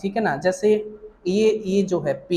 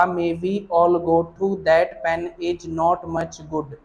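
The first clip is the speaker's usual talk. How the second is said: slow recitation; much slower than usual. Shown as a demonstration. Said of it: "बारह vowel बताए थे कि pa".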